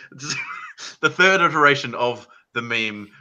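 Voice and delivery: can barely get "the third iteration" out for laughing; laughing through words. Real, not acted. Telling the meme story to friends, laughing helplessly.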